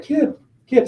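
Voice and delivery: eight-year-old fan calling to the player, mock kid voice. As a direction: nag him like a little fan. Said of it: "The guy's like".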